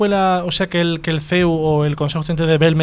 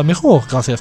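laughing; 2 semitones lower, 5 dB louder than usual. Real, not acted. Relieved laugh after accent bit.

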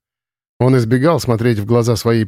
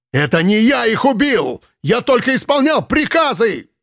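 much higher defensive yell; shouting; 11 semitones higher than usual. Acted. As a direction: shout it off in denial. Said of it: "закричал Ленц". (Ленц кричит, оправдываясь)

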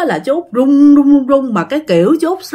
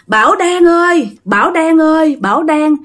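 pleading; 5 semitones higher than usual. Retold or imitated. Kneeling spirit begs at the altar for shelter, pleading. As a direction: plead as a humbled spirit, retold. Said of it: "làm ơn á, là cho tụi con".

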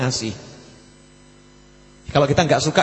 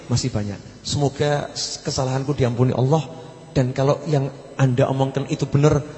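softer, gentle calming of the students; gentle and courteous; 3 semitones lower, 5 dB quieter than usual. Retold or imitated. Habib calms angry students, soft and courteous. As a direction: soothe them softly, without a trace of anger. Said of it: "dengan santun".

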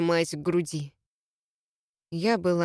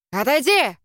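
growled order; 5 semitones higher, 5 dB louder than usual. Acted. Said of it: "рыкнул он на Молли".

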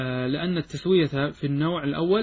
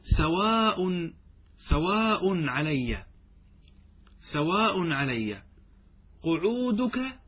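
slow teaching chant, قعودك raised high; slow stretched recitation; 3 semitones higher, much slower than usual. Shown as a demonstration. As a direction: draw out سواء علي slowly, then lift قعودك high. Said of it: "يصبح هكذا".

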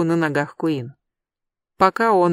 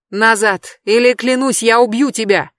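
loud, higher threat; threatening; 4 semitones higher, 5 dB louder than usual. Acted. Jeb threatens Adam, loud raised threat. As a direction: warn him off at gunpoint.

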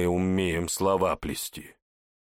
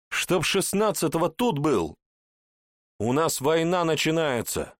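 high raised commanding yell; yelling orders; 9 semitones higher than usual. A narrator's reading. Hawk yells that war is starting and he must return. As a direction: shout the deadline like a furious boss. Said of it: "орёт ястреб".

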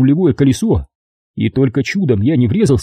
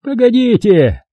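high, drawn-out squeal; notary squealing after the departing narrator; 11 semitones higher, slower than usual. A narrator's reading. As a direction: squeal it after him in a panic. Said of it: "заверещал он вдогонку".

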